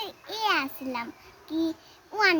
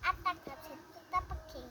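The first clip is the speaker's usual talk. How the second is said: reciting a rhyme; 11 dB quieter than usual. Real, not acted. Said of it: "একটা কবিতা শোনাবে সবাইকে?".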